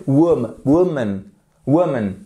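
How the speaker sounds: "woman" with short throaty first vowel; "woman", short oo up front, weak ending; pronunciation demo. Shown as a demonstration. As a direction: model "woman" slowly, stressing the first syllable. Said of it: "un E court qui se fait avec la gorge".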